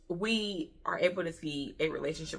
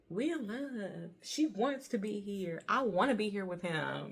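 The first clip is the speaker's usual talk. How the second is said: mock the couple's dreamy bliss; lightly voiced lovers' sigh; dreamy mock lovers; 4 dB quieter than usual. Mocking the lovers' bubble.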